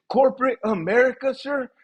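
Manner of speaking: high-pitched mock disbelief; incredulous echo. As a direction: throw it back as an appalled question. Acting his shocked reply to boss.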